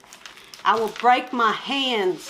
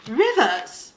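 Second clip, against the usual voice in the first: mock British accent; 4 semitones higher, 4 dB louder, much slower than usual. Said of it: "You're out there saying".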